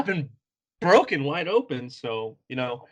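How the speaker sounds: sarcastic brush-off. Retold or imitated. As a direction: toss it off as a mocking goodbye. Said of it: "the sarcasm is, like, cranked to eleven".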